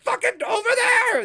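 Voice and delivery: high, very loud exasperated yell; frustrated shout. Retold or imitated. Joel screaming at the kids to look, very loud. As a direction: yell it in despair. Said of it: "he's like".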